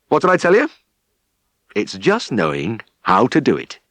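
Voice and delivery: a playful farmer slapping a shoulder; cheerful farmer. Acted. Farmer teases the improving lad.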